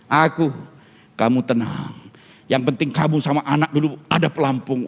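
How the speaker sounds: a touch of low, manly composure; mock-heroic manliness. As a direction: reassure like a would-be hero. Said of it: "saya kayak pria sejati betul".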